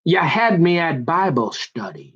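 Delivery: slow, earnest romantic movie line; movie line parody. Retold or imitated. Comedian parodying Jerry Maguire, slow and earnest. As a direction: deliver it like a swooning film hero. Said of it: "it'd be like Jerry Maguire".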